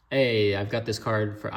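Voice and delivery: slow, Mario-style Italian lilt on a buyer's question; a slip into a cartoon Italian accent; accidental Italian accent. Imitating a buyer asking about a card, in a mild Italian accent. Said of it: "it sounded like I was Mario or Italian".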